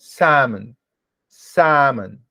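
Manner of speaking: Salmon with a silent L, said samon; model pronunciation. Shown as a demonstration. Teacher models the correct English word for students, slowly and clearly. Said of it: "pronuncia novamente comigo".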